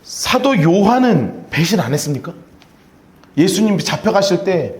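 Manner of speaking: ordinary talk, nothing marked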